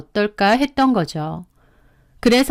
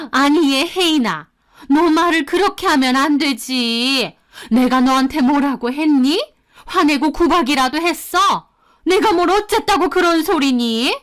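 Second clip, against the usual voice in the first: higher, indignant mother-in-law voice; mother-in-law taking offense; 3 semitones higher than usual. Acted. Mother-in-law rebuking her daughter-in-law, indignant and higher. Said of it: "역정을 내시는 겁니다".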